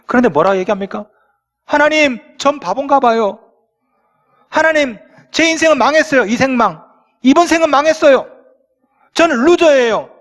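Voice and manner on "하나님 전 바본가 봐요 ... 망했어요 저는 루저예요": higher, whiny complaint to God; whining believer. Retold or imitated. Believer whining to God that his life is ruined, higher and whiny. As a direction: plead like a sulky child.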